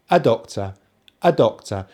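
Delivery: "a doctor" linked, with a weak schwa "a"; joined words. Shown as a demonstration. Teacher showing the schwa in a phrase, linked pronunciation. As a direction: glide from "uh" straight into stressed doctor. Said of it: "they almost join together".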